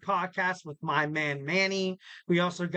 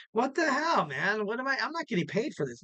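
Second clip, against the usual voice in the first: higher-pitched mock indignation; mock outrage; 4 semitones higher than usual. Podcaster jokes about not getting paid for counseling, mock outrage. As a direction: play-act being fed up, pitched up. Mock complaint, then "just kidding.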